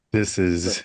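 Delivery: low late-night DJ African American accent; black voice. Shown as a demonstration. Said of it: "This is my black voice".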